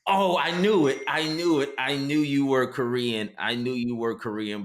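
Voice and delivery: mock triumphant excitement. Skit man to woman on guessing her origin, mock triumphant. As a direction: imitate an excited told-you-so.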